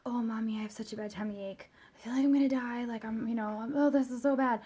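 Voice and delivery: mildly voiced little-kid complaint; mock tummy-ache misery, understated; imitating upset child. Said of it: "when she gets really upset".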